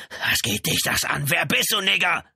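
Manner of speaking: high, hissy start rising into a shout; angry challenge. A narrator's reading. Held-back brother turns on the policeman, angrily. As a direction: lash out, building in pitch and force.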